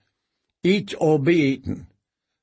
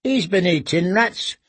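put-on boy voice; 5 semitones higher than usual. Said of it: "said the second boy".

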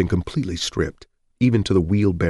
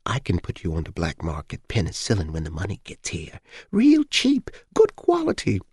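put-on wheedling old neighbour. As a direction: sell it like a sly old gossip. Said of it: "she whispered".

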